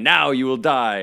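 slow theatrical villain menace. Retold or imitated. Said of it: "Emperor Palpatine at the end".

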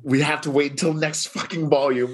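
high-pitched, playful dismay; upset. Real, not acted. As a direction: lament it lightly, voice lifted. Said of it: "I'm so upset".

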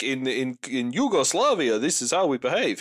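lightly mimicked Eastern European comic accent; Yakov Smirnoff. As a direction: put on a hammy Yugoslavian accent. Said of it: "wasn't even like a Yakov Smirnoff".

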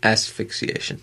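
"Asphyxiation" with a clear "as" at the start; pronunciation correction. Shown as a demonstration. Co-host corrects the mispronunciation.

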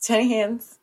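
breathy whispered nickname. Acted. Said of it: "echoing nickname in a whisper".

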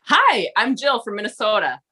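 thick Minnesota accent with long round O. Shown as a demonstration. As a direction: introduce yourself in your own Minnesota accent. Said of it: "my apparently thick Minnesota accent".

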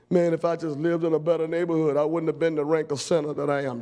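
quick, lightly voiced whiny excuse; half-hearted imitation of a complainer; mock excuse. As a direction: rattle off a lame excuse.

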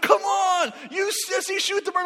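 high, strained mock shouting; imitated goading yell. Cousin goading the boy in the tree, high imitated yell. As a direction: egg him on at a holler.

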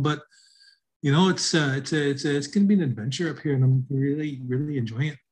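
light sing-song rez accent, rises in pitch on it's; Res accent. Shown as a demonstration. Showing podcast listeners how relocated Natives sound, light rez accent. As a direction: tell a small story in a gentle reservation sing-song. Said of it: "So as you notice, when I talk, it was kind of a sing-song to my voice".

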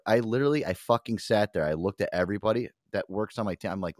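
ordinary talk, nothing marked

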